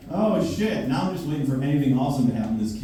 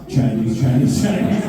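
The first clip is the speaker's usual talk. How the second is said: mock chatter louder; 5 dB louder than usual. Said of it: "what I overheard".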